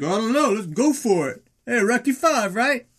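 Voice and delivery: high, eager hype; acted excited egging-on; fired up. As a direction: pump your friend up, pitched high. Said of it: "he's all fired up".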